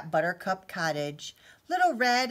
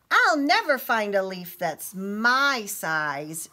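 sniffly; 2 semitones higher, 8 dB louder than usual. A narrator's reading. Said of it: "she sniffed".

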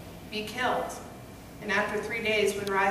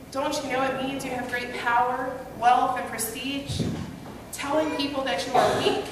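raised, urgent lecture to a friend; stern scolding; 3 semitones higher than usual. Retold or imitated. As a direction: scold him sternly but out of love. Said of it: "let my dear friend hear the words of truth sternly".

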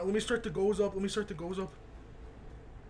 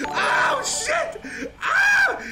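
high yelp, half laughing; pained yelp; 12 semitones higher, 3 dB louder, much slower than usual. Real, not acted. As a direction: yelp as if the hit landed on you. Reacting to a brutal hit.

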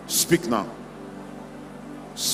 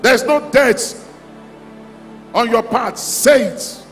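raised, high-pitched pulpit declaration; fervent proclamation; 5 semitones higher, slower than usual. Real, not acted. Preacher declaring life over the congregation, fervent proclamation. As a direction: proclaim it high, urging them to repeat.

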